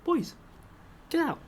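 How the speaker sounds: put-on high, lightly lisped teacher telling boys off; a hint of a lisping, flustered teacher. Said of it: "he had a bit of a lisp anyway".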